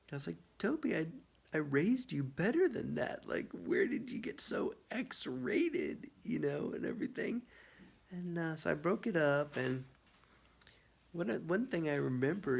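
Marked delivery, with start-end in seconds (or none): 0.6-7.4 lightly voiced scolding mom, raised pitch; a hint of a disappointed mother; mock scolding parent. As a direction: tsk at a naughty dog like a parent. Scolding her dog, retold.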